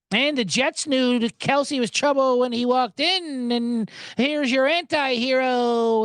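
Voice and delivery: lightly hammed-up announcer, drawn out at the end; mock sportscaster. Sportscasters forcing in a pop singer's song titles, mocking.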